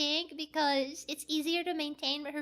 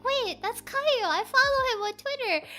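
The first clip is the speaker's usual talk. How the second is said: mildly raised, eager realization; retold surprised recognition; 4 semitones higher, 3 dB louder than usual. Streamer spotting a followed VTuber, eager surprise. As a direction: point someone out with sudden interest.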